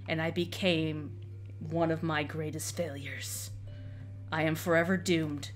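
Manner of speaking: low, grim knight voice; doomed undead knight. Acted.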